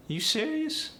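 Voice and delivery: AAVE, very high rising pitch on serious; wide-pitched AAVE question, swooping way up. Shown as a demonstration. Teacher showing the dialect's wider pitch range, AAVE. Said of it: "it's more like".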